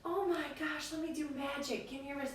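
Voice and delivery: put-on calm the kid with play; soothing coach. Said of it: "But, like".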